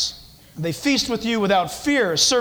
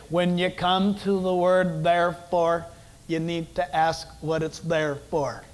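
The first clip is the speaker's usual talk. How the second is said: J. Vernon McGee; 4 semitones lower than usual. Retold or imitated. Preacher quoting a radio teacher's saying, imitated accent. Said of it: "a voice like that".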